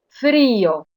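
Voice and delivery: frío in two syllables, weight on the Í; stress on the I. Shown as a demonstration. Teacher giving students the solution, stressed Í in frío. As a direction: lean on the Í in frío. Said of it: "la I en todos estos casos se oye con mayor intensidad".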